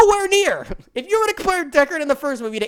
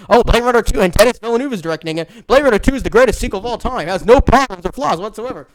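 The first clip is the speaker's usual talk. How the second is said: mock fan hype; 6 dB louder than usual. Mocking fans' hype again.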